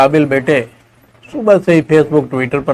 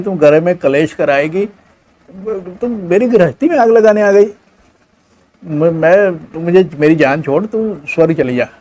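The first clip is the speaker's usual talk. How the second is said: higher, sharp scolding of mother; angry son; 4 semitones higher than usual. Acted. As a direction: push her away in a huff.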